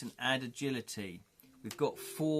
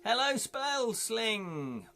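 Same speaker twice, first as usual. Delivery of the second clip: cheerful greeting; 9 semitones higher, much slower than usual. Real, not acted. Greets viewer, high slow.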